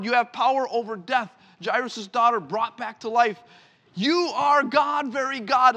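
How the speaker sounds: high, loud ringing confession; proclaiming loud. Acted. Peter confessing to Jesus, loud proclaiming. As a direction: shout it out like a believer.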